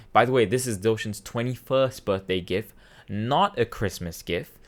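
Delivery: matter-of-fact announcement to the family; a little firm, at normal speed; small announcement. Retold or imitated. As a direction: imitate dad briefly informing everyone. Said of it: "a small announcement".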